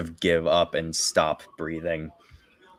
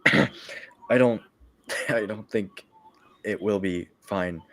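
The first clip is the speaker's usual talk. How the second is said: weak coughing knight. Acted. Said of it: "he's coughing".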